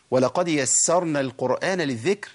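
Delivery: slow recited ولقد يسرنا القرآن للذكر; Quranic recitation. Shown as a demonstration. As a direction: recite the verse slowly. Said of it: "رب العزة يقول". (تلاوة مرتلة ببطء)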